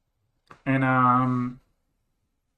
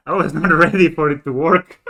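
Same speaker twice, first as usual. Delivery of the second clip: laughing disbelief; 8 dB louder than usual. Real, not acted. Laughing at unexpected win.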